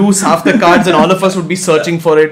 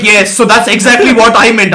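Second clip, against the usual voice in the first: smug Lelouch; 6 semitones higher, 6 dB louder than usual. Pretend. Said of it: "and he'd be like".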